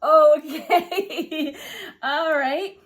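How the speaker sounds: high, drawn-out baffled reaction; retold puzzled acceptance with a laugh; bemused okay. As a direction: stretch it out, amused and wary. Baffled reaction to meowing stranger.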